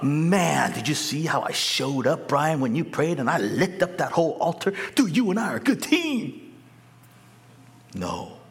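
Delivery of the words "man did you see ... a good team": chummy buddy God. Pretend. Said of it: "How about".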